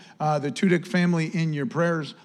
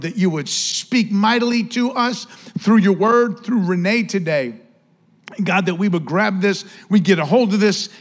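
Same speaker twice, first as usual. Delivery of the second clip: fervent prayer, rising louder mid-way; 3 dB louder than usual. Acted. Pastor praying aloud before the sermon, fervent and building. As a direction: lift the room in earnest prayer to God. Pastor prays over the congregation.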